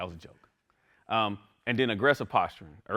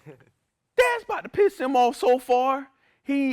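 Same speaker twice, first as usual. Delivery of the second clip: laughing; 9 dB louder, slower than usual. Real, not acted.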